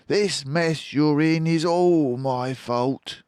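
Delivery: warm Fox voice. A narrator's reading. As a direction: greet an old friend fondly. Fox admitting blame.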